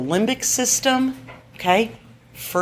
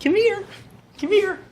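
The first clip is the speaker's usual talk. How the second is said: calm call; 12 semitones higher than usual. Shown as a demonstration. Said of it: "you wanna say very calmly, very slowly".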